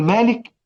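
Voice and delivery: مالك with a long first vowel; added alif. Shown as a demonstration. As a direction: lengthen the first syllable of مالك to "maa". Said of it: "وأزود ألف كده". (نطق «مالك» بزيادة الألف)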